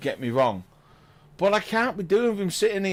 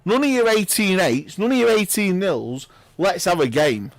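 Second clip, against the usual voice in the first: rousing call; 3 semitones higher, 6 dB louder than usual. Real, not acted. Urging a close match.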